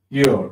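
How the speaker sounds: শিওর said loud and crisp with a falling end; model pronunciation. Shown as a demonstration. Teacher showing students how to say শিওর, firm. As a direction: land শিওর firmly as the model word. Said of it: "যেমন দেখো কিরকম বলি".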